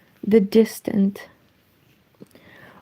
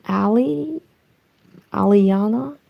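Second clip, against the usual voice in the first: American accent. Shown as a demonstration. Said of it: "let me pretend I can read it with American accent".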